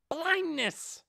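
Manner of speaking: high, breathy whispered spell name; hissed spell name. Acted. Giant hamster casting blindness on Ainz, a high hissed whisper. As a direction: hiss the spell like a secret.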